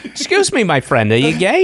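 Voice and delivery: high-pitched hammed-up Jewish accent. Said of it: "with that Jewish accent".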